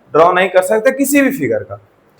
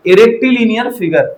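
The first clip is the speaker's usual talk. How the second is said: A rectilinear figure, drawn out word by word and a little higher; slow, stressed term; 4 semitones higher, much slower than usual. Shown as a demonstration. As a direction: spell out "A rectilinear figure" slowly for the class. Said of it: "क्या बोल दिया जाएगा?".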